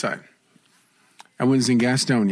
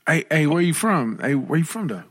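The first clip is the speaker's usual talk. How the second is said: street voice; 4 semitones higher than usual. Shown as a demonstration. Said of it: "a little more street in me".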